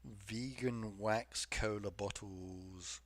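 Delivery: disgusted. Real, not acted. Repeats again, disgusted.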